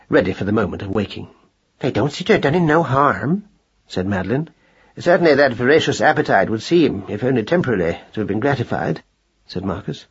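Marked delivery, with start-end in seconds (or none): 1.8-3.4 a hint of a homely wife; plain-spoken mouse wife, lightly voiced; lightly voiced mother mouse. Mouse wife defends what the pills did, lightly voiced. 5.0-9.0 a touch of pedantic formality; mildly pompous mouse gentleman; lightly voiced pompous husband. Mouse husband answers his wife, mildly pompous.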